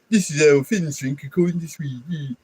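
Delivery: lilting sing-song Swedish imitation; mock Swedish accent. Streamer mocking the video thief's Swedish accent. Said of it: "he's going like".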